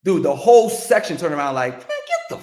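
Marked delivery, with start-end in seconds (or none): 1.8-2.4 loud laughing shout of disbelief; disbelieving shout. Retold or imitated. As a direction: yell get out of here like you don't buy it. Whole section disbelieving, shouting.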